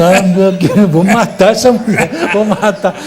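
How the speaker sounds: joking fury through laughter; mock murderous grumble. Watching actress steal his play. (ameaça de brincadeira, rindo)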